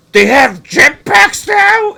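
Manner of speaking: very high, slow incredulous squeak; mock clueless viewer. Friend imitating a confused fan at the movie, high and slow. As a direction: play the baffled moviegoer. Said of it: "and he goes".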